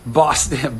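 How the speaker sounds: Boston accent on the city's name. Shown as a demonstration. Trying out Boston for viewers, Boston accent. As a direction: say Boston like a local. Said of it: "speaking of Boston".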